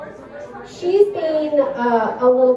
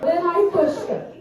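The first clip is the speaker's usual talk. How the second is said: daughter confessing; 7 semitones higher than usual. Retold or imitated. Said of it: "She goes".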